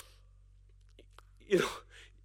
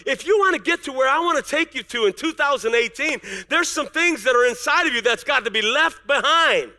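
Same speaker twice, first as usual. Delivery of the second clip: voice of God. Pretend. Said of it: "and God says".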